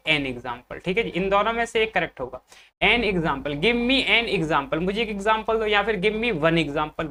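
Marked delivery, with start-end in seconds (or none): 3.6-4.8 slow. Shown as a demonstration. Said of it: "बात एक ही है दोनों की". 6.0-7.1 slow. Shown as a demonstration. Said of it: "बात एक ही है दोनों की".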